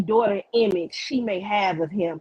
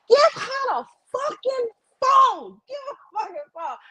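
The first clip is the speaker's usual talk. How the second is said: blood-boiling anger. Retold or imitated. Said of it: "my blood was boiling so bad".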